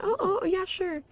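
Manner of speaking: startled high yes; flustered surprise. Acted. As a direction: caught off guard, stammering oh oh. Man voiced, caught off guard.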